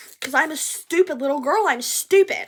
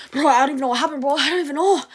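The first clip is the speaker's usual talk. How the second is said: frantic flustered; 2 semitones higher, 6 dB louder, much faster than usual. Retold or imitated. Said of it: "I'm like".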